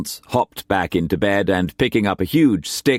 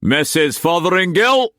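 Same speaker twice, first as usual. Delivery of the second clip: high, raised call down the stairs; bellowing; 10 semitones higher, 4 dB louder than usual. A narrator's reading. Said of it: "bellowed downstairs".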